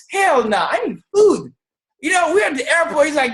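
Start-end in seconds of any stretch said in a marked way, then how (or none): 0.1-1.5 indignant refusal. Retold or imitated. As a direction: refuse it hotly, as retold banter. Retold refusal of shake as meal.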